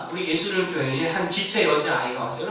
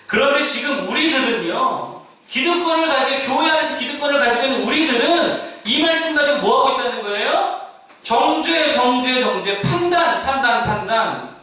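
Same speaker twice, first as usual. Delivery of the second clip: higher and louder, hammering each charge home; full-force preaching; 8 semitones higher, 5 dB louder than usual. Acted. Pastor rebuking the church's insiders, full-force preaching. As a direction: preach it hard, word by word.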